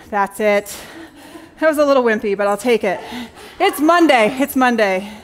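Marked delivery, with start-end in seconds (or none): 3.6-4.3 "It's Monday" lifted and brighter, a cheeky shrug; first "It's Monday" with a lively lift; playful excuse. Real, not acted. Excuse after the wimpy woo. 4.4-5.1 second "It's Monday" low and deflated; resigned repeat. Real, not acted. Excuse after the wimpy woo.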